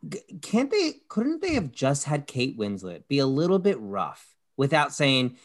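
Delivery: high, loud, hammed-up mock of the show's lines; mock TV character. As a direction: parody the actors in a squeaky outraged voice. Mocking show's dialogue, rant.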